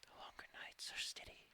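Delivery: very faint whisper; mad whispering. Acted. Game master voicing whispers carried by a dust storm, mad whispering. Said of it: "carry the whispers of madness".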